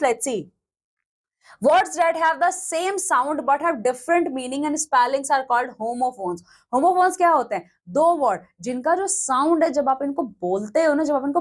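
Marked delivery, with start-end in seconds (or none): 1.6-6.4 very slow, word by word, like dictating to a class; slow definition reading. Shown as a demonstration. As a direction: read the definition out slowly and clearly. Teacher reads definition slowly. (बहुत धीमे, शब्द-शब्द पढ़कर समझाना)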